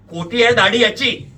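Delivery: high, very loud exclamation; loud insistence. A narrator's reading. Suspect insisting to police on false beard, loudly. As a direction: blurt it out in disbelief.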